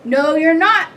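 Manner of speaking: forceful storybook troll. A narrator's reading. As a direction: forbid it as a menacing troll. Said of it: "said the troll".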